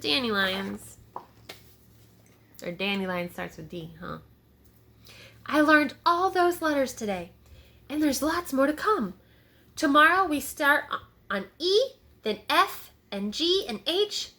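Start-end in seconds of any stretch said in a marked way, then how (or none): 5.5-14.3 put-on a lightly raised child voice; excited little boy. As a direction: kid rattling off letters. Tommy chattering to the animals.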